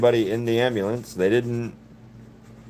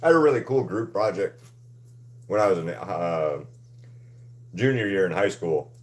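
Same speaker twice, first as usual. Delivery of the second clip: talking while chewing; words around a bite of food; mouth full. Real, not acted. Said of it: "Sorry, I'm chewing".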